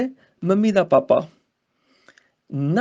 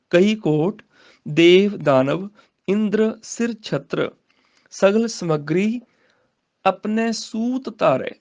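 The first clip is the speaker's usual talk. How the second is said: slow, deliberate recital with long pauses; slow scripture recitation; much slower than usual. Shown as a demonstration. Teacher modelling the verse for students, slow and deliberate. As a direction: lay out each phrase slowly.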